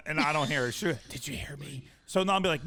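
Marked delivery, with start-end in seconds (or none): 1.1-1.9 tiny, very soft imitation; mousy quiet. Husband imitating wife checking if he heard, mousy quiet. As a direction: repeat it just as inaudibly. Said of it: "the second repeat is exactly the same level".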